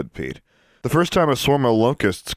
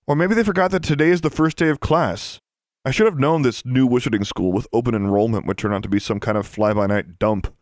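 mildly raised, scornful complaint; disgruntled girl; 3 semitones higher than usual. Acted. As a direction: grumble sarcastically about the new school.

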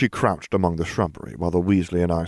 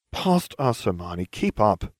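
sighing; 2 semitones higher, slower than usual. Acted. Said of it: "I sighed".

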